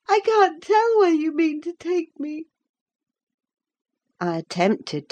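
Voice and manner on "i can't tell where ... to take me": put-on high childish voice, distressed; a frightened boy resisting; fretful child. A narrator's reading. Linton refuses to leave.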